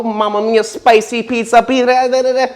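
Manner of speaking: high sing-song Italian chef voice; hammed-up pizza chef singing; jolly Italian pizza chef. Singing jokey Italian pizza ditty.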